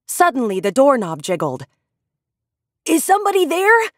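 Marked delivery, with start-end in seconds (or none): 2.9-3.9 a lightly voiced shout through the door. A narrator's reading. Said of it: "Gilbert shouted".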